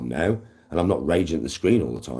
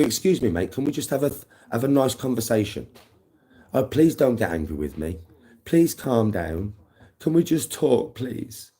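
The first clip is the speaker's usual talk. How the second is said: sarcastically meek, reasonable request; mock polite pleading; 3 semitones higher than usual. Mocking how he'd calm an angry man, mock polite pleading. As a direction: plead politely, making fun of being nice. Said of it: "what do you think I'm gonna do?".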